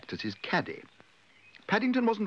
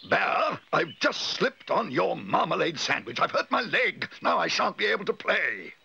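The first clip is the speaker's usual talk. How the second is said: high, wailing outrage; drawn-out high-pitched whining anger; pained complaint; 9 semitones higher than usual. A narrator's reading. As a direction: blame the bear while nursing an injury. Curry hurt, blaming the bear.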